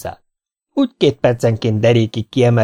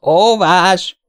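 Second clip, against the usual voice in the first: high, raised cry of protest; shrieked protest; 8 semitones higher, 4 dB louder than usual. A narrator's reading. Team member watching the rivals objects, shrieking. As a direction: shout an objection to the referee. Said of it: "süvöltött Görgényi az ellenfelet figyelve".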